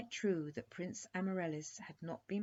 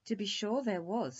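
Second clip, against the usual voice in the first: smiling; 5 semitones higher, 8 dB louder than usual. Acted. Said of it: "smiled the queen".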